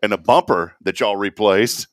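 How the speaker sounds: loud, high complaining customer; mock outraged caller; irate prank caller. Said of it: "I said".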